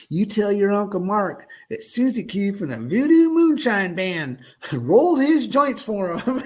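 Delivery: slow, laughing through the words; proud and amused, giggling it out; laughing lady. Retold or imitated. Lady laughing while handing joints.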